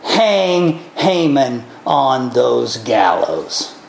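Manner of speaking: low, slow solemn command; royal command. Retold or imitated. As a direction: pronounce the sentence slowly and low. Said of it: "Ahasuerus commands".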